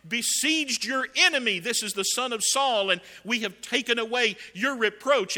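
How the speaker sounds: loud, high-pitched triumphant report; acted-out boast at full voice; proud announcement. Servants proudly present deed to king.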